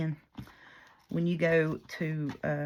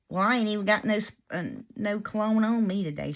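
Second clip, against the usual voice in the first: louder, higher mock protest; retold defensive customer; 5 semitones higher, 4 dB louder, faster than usual. Customer denying she wears cologne, mock defensive protest.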